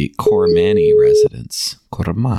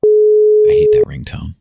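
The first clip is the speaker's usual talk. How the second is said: raised loudly, slow, over a shrill ringtone; 6 dB louder than usual. Real, not acted. Annoyed host yelling over a ringtone, loud. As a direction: shout over the ring tone.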